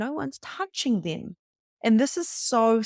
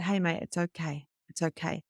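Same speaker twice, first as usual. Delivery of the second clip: soft, slightly lowered soothing voice; mum hat; 3 semitones lower, 5 dB quieter than usual. Retold or imitated. Mum calming a teenager after a car crash, softly reassuring. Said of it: "I put on my mum hat".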